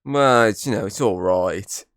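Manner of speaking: understated lukewarm verdict; unenthused Diego impression. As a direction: play a so-so, unimpressed reaction. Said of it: "Diego's the, like".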